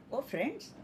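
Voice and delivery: mildly sweet, soft address; a touch of sweetness, addressing friends; sweetly. A narrator's reading. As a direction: say it gently, as a sweet greeting. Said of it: "very sweetly he said".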